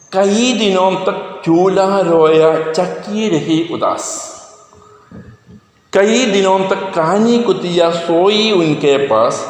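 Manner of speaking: slow, measured verse reading; poem recitation. Acted. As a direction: recite each line of the poem deliberately. (കവിത സാവധാനം ചൊല്ലുന്ന രീതിയിൽ)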